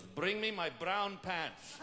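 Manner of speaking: slow, high-pitched captain's order; captain losing composure. Acted. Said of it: "Captain goes".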